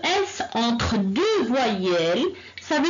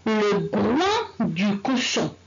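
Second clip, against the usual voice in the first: Le groin du cochon, slowly with each word apart; slow, careful teacher read-aloud; slow model reading; 4 semitones lower, slower than usual. Shown as a demonstration. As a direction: read slowly so pupils can follow. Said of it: "on commence la lecture".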